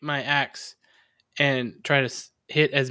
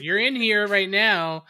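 threatening the orb; 5 semitones higher, slower than usual. Acted. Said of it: "and be like".

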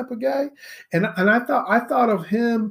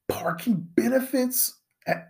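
whispered aside; 4 semitones higher, 4 dB quieter than usual. Acted. Mocking friend's perks.

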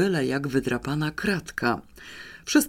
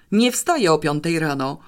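a firm, mildly louder refusal; mild mock yell; 2 semitones higher, 4 dB louder than usual. Pawełek refusing his sister's plan to get up early, mild categorical yell. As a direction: refuse flatly, half-shouting. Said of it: "wrzasnął kategorycznie Pawełek".

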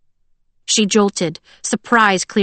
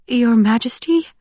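higher, timid questioning voice; shriveled, frightened voice; 4 semitones higher than usual. A narrator's reading. Frightened woman crouched in a corner calling to the emperor, timid. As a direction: shrink back as you timidly ask. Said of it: "said a shriveled, frightened voice".

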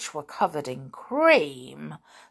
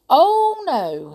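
high sudden "Oh" then a quick no; cat startled into denying it; startled denial; 10 semitones higher, 9 dB louder than usual. A narrator's reading. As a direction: yelp it out, caught off guard. Gobelino denies being witch's cat.

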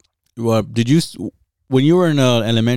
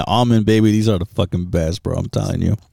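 mouth full. Real, not acted. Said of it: "hear me chewing".

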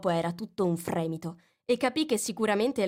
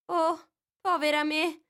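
dismayed cry; 10 semitones higher, 4 dB louder than usual. A narrator's reading. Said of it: "esclamò Alice tutta dispiaciuta".

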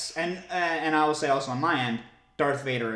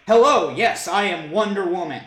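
loud, raised-pitch attempt at a British accent; mock British heroine; British-sounding Wonder Woman; 4 semitones higher, 7 dB louder than usual. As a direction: announce yourself with a put-on British accent. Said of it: "she kinda sounds like a British person".

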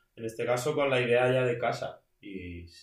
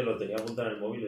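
fast repeat; much faster than usual. Retold or imitated. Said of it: "Cuando dice".

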